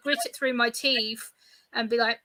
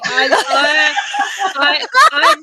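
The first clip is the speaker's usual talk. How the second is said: excited stammer; 4 semitones higher, 11 dB louder, slower than usual. Real, not acted. Excited about ice cream.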